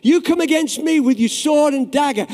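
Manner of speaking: loud, high battle cry; David shouting at Goliath; shouted defiance. Retold or imitated. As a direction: shout it at the giant. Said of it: "I believe he shouted that".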